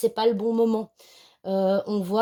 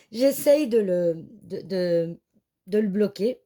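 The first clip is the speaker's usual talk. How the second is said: phrase hachée par le hoquet; avec le hoquet; slower than usual. Real, not acted. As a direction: retenir son hoquet en parlant. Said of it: "j'ai le hoquet en même temps". (en essayant de bloquer le hoquet)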